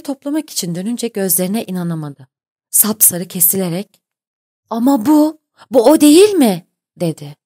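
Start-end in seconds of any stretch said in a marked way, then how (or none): 4.7-6.7 high, loud cry of alarm; stunned, loud rising question; shocked disbelief. A narrator's reading. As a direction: blurt it out, aghast, voice leaping up. Shocked at sighting the ship.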